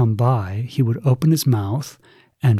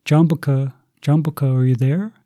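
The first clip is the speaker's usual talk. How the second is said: calling out; 4 semitones higher, 3 dB louder than usual. Acted. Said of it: "he called out".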